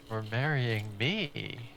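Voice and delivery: slow, dreamy, drugged-up thanks; groggy husband. Retold or imitated. Retelling a video, the sedated husband thanks his wife, slow and dreamy. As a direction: drift through it like you're barely awake.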